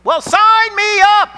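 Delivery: loud, high, slow mock enthusiasm; sarcastic cheer. Disciple sarcastically volunteering, loud high cheer. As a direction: cheer it as if it were a prize.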